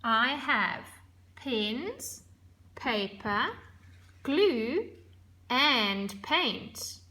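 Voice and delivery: "pens," "paper," "glue," each rising with a pause, "and paint." falling; list with pauses. Shown as a demonstration. Teacher reading a list to show commas, pausing. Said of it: "The comma".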